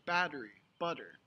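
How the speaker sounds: "battery", "butter" with quick d-like tt; flap T. Shown as a demonstration. Teacher giving example words, flap T. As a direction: tap the tongue once for the tt in "battery" and "butter". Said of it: "something called a flap T".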